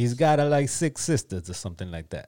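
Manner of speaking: put-on New York accent. Showing co-hosts his New York accent. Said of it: "That's my New York accent".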